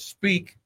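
"Speak" pitched high and left hanging alone; emphatic repeat. Real, not acted. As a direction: lift "Speak" high as one isolated word. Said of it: "I'm gonna say it one more time".

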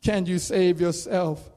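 a hint of a sneering mocker; mocking taunt. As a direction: taunt him like a passerby at the cross. Mockers taunting Jesus on cross.

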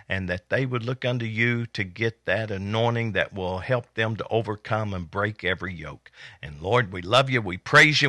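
earnest church prayer. Acted. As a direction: pray over the congregation. Leads an opening prayer.

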